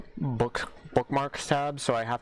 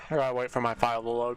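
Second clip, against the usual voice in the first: talking with food in mouth; words round a bite of food; chewing while talking; faster than usual. Real, not acted. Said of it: "Sorry if you guys can hear me eating".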